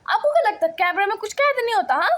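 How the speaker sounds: teacher accusing a colleague, indignant; indignant accusation. Acted. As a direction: call her out for hurting the kids. Teacher quarrels with another teacher.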